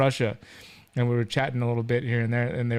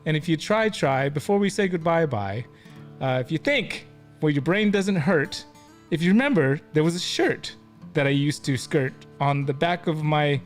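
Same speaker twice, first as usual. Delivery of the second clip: improvised poetry; 2 semitones higher than usual. Pretend. Host making up a little poetry to sign off, improvised recital. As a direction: declaim a homemade rhyme, pausing between phrases. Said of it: "do a little poetry here".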